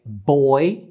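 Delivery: put-on "boy" said slowly, gliding clearly from the "o" into "i"; slow example word. Shown as a demonstration. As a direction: slowly model "boy" for learners. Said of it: "the diphthong oi, you have sounds like".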